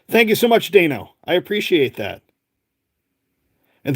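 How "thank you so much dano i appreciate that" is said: excited thanks. Real, not acted. Thanking a viewer on the live.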